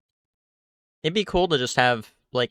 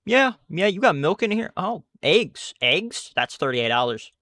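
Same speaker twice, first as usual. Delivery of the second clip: higher, louder hammed-up cashier voice; imitating the cashier; 7 semitones higher, 5 dB louder than usual. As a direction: parrot the rushed cashier. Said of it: "She was like".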